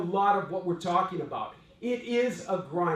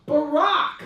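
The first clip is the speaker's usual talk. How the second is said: laughing reveal; 10 semitones higher, 9 dB louder than usual. Retold or imitated. Friend reveals name, laughing.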